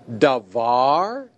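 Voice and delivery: Davar with the accent on the last syllable, var; stress on final syllable. Shown as a demonstration. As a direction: say Davar slowly, leaning on var. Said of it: "is var. That's the syllable that receives the accent".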